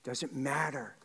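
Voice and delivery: earnest public prayer in measured phrases; closing prayer. Real, not acted. Pastor thanking the Father on Easter morning, earnest prayer. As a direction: pray aloud with pauses between phrases.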